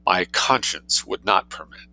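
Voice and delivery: slow, cool and dignified; cold dignity. Acted. Matilda refusing to leave her post, slow cold dignity. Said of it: "said Matilda with cold dignity".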